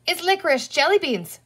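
high-pitched cry of discovery. A narrator's reading. Girl catches her brother with jelly beans, crying out. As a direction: call out the accusation. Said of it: "cried Penny".

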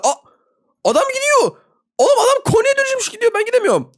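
high-pitched whine at being stuck; frustrated squeal. Real, not acted. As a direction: squeal as the hider gets away. Stuck while enemy escapes.

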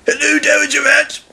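high-pitched friendly greeting; high character voice; smiling engine. A narrator's reading. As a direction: greet the lady with a smile as a train. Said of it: "smiled Neville".

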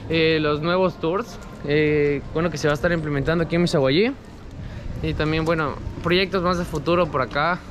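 muffled by cloth mask; speaking behind surgical mask; through a face mask. Real, not acted. Seen 1: Speaker wears blue surgical mask over mouth throughout; references unmasked.

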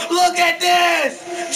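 drawn-out shout, each word stretched slowly; slow angry shout. Real, not acted. Gamer repeating complaint to teammate, slow drawn shout. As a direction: drag the words out in disgust. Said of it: "I never raged like that before".

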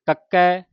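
ਕੱਕੈ with a firm doubled k; tightly pressed consonant. Shown as a demonstration. Teacher models the pronunciation, ਕੱਕੈ with tight doubled k. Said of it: "ਕੱਸ ਕੇ".

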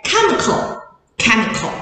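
chemical said slowly with a hard k at the start; k sound demo. Shown as a demonstration. Teacher showing the class the k sound of ch. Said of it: "它是发k".

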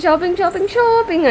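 lightly mimicked sing-song "షాపింగ్", last one stretched; teasing imitation of an aunt's chant; imitating aunt. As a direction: playfully copy an aunt's catchphrase. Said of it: "ఏమంటది".

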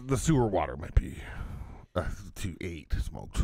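fast whispered aside; mock whisper. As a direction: hiss it like a secret.

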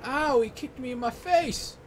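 high, loud outraged protest; indignant outcry. Real, not acted. Player outraged at opponent kicking him, high loud protest. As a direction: cry out as if the kick really hurt. Indignant reaction to game hit.

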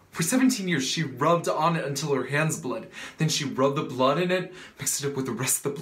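worked-up family argument; impassioned reproach. Acted. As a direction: press the accusation hard, pitch lifted. Acted quarrel over mother's suffering.

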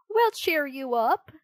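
a loud, cheery shout. Acted. Toys cheering up sad Pinocchio, loud shout. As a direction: shout it out together. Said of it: "shouted the toys".

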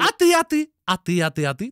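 mocking taunt. Mocking the opponent again.

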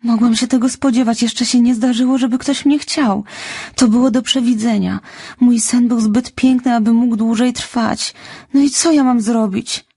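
put-on high child's voice on the edge of tears; a heartbroken orphan girl, close to crying; distraught little girl. A narrator's reading. Orphan girl telling Marilla her dream is over, near tears. Anne's despairing speech.

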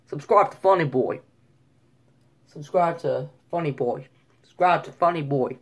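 light New York accent attempt; lightly imitated New Yorker. Shown as a demonstration. Vlogger retrying his plug, mild New York accent. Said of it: "New York".

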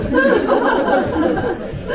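a sudden high burst of laughter, trailing off; real laugh. Real, not acted. Father laughing at wife who always sleeps first, a high real laugh. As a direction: let the laugh burst out high, then fall away.

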